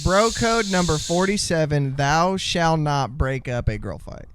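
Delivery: solemn commandment, slowing at the end; mock proclamation. Co-host citing bro code on girl fights, mock proclamation. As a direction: recite it like holy law.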